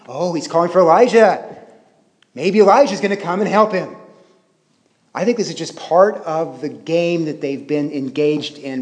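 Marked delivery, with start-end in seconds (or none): 0.1-4.0 lightly acted jeer; mild mockery. Preacher voicing bystanders making a pun at Jesus, mild mockery. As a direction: imitate bystanders poking fun, slightly hammed-up. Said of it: "they're mocking him".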